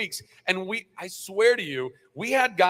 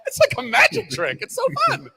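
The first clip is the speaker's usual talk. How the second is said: amazed fans; 7 dB louder than usual. Retold or imitated. Actor imitating fans reacting to his catchphrase, high amazed shout. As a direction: squeal it like a stunned fan. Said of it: "and people go".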